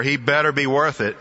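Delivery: lightly tossed-off quip, quick. Retold or imitated. Soldier quipping about the man they're looking for, quip. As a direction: toss it off as a wry quip. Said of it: "Miller quips of Ryan".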